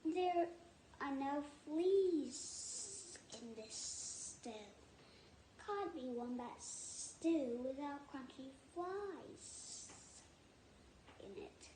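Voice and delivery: slow, soft scornful lizard voice; hissing lizard. Acted. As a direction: lizard scolding the dingo softly. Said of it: "he hissed".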